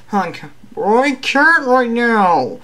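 high, drawn-out character shout; Hulk voice. Acted. Hulk refusing Batman's call for help, drawn-out high character voice. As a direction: bellow slowly, pitched well up.

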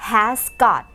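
has got said very slowly and carefully; slow model phrase. Shown as a demonstration. Teacher modelling British has got slowly. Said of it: "เขาจะเติมคำว่า got เข้าไปข้างหลังด้วย".

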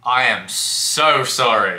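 slow, drawn-out sarcastic apology; mock apology. Answering a hateful commenter, mock apology. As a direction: lean hard and long on the apology.

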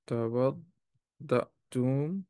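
"توضأتم" drawn out slowly in separated syllables, rising at the end; slow careful repetition. Shown as a demonstration. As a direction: say "توضأتم" slowly, piece by piece, for learners. Teacher repeats verb slowly for students.

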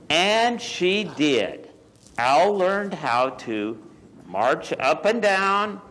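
measured picture-book narration with lingering key words; story read to children. A narrator's reading. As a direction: read it to small children, pausing between phrases.

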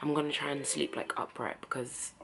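low, very soft mumble; tired. Real, not acted. Vlogger about to nap upright, tired and quiet. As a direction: let the voice sink, worn out. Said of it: "because I am so tired".

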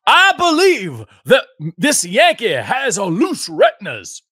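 hammed-up Boston accent, drawn out; attempted Boston accent. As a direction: reach for a Boston accent and half lose it. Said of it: "did I lose my ability to do a Boston accent".

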